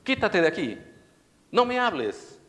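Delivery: put-on high, loud child's yell; shrill tantrum, loud and high. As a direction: scream it like a furious little boy. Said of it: "el niño decía".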